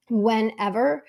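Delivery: throat catching on dust, strained; choking on dust. Real, not acted. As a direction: talk through a dusty cough. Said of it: "I was literally just choking on dust".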